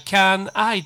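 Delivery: "can I" as two separate words, "kyan ai"; loud "can I", n not joined to I; unlinked mispronunciation. Shown as a demonstration. Teacher shows a mistake, "can I" unlinked. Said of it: "これは間違いですので".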